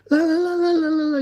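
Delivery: high, loud gibberish imitating an angry driver; mock foreign yelling. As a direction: parrot his angry ranting as nonsense syllables. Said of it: "he starts yelling in language".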